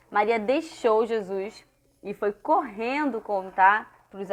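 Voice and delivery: measured, lilting Bible storytelling; story reading to children. A narrator's reading. Teacher telling children of the empty tomb, expressive story reading. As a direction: read it out phrase by phrase for children.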